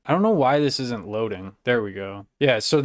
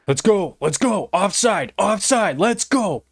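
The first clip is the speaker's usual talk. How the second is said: celebrating; 8 semitones higher than usual. Real, not acted. Streamer cheering hockey updates, excited higher calls. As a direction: cheer each call out.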